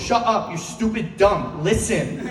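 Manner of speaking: acted irritated outburst; exasperated mom. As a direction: scold him for not following. Mom snaps at confused dad.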